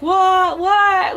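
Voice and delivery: high, loud stunned what; mock shocked repeat; shocked disbelief. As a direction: gasp it out in disbelief.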